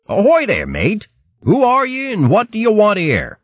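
put-on bold old boxer calling out; gruff old hare. Old boxing hare challenges.

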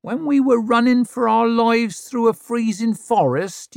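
high, loud mocking reply; sarcastic retort. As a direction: needle her with sarcasm.

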